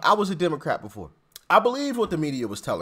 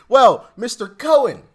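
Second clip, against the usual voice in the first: mock-polite taunt; 3 semitones higher, 4 dB louder than usual. Mock-formal taunt of Cohen.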